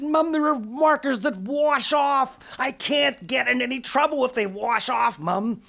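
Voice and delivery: put-on high, slow wheedling kid voice; pleading child. Girl begging her mum for washable markers, high and wheedling. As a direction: coax Mum like a little girl.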